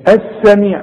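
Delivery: السميع with a clean s and plain lam; correct Quranic reading. Shown as a demonstration. Teacher reading السميع correctly to a student. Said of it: "ما قلتش السميع".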